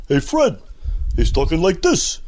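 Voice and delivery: lightly voiced cartoon sidekick; a hint of the Barney voice; Barney Rubble. The speaker imitating his take on Barney. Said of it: "the voice that you get as Barney Rubble".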